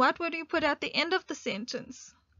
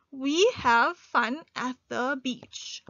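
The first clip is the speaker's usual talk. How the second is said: slow, deliberate dictation pace; slow dictation read; slower than usual. Shown as a demonstration. Teacher reading a sentence slowly to learners, deliberate. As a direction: read it out word by word for the class. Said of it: "the sentence".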